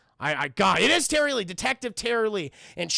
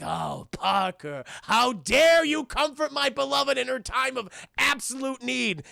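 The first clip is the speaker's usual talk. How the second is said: Michael Morbius; 3 semitones higher, slower than usual. Retold or imitated. Jealous villain to Parker about his beloved, melodramatic. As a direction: play a brooding melodramatic villain, slowly building. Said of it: "Michael Morbius just going".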